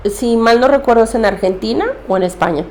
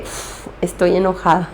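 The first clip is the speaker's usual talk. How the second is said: enojo contenido; 3 semitones lower, 6 dB quieter than usual. Retold or imitated. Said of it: "En ese momento dije".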